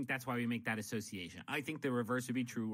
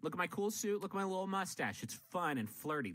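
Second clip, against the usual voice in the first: mock pleading butler; 5 semitones higher than usual. Pleading butler role-play.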